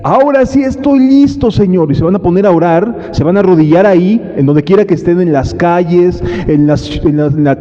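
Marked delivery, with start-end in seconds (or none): 0.0-1.9 late repentant believer. Retold or imitated. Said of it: "Y entonces van a llegar".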